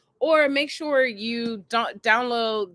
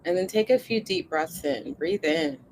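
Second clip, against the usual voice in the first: guided meditation; 3 dB louder than usual. Acted. Leads body scan and breathing.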